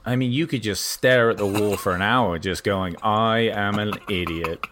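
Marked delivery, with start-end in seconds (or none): 3.0-4.7 mock self-berating. Self-berating stare at the wall.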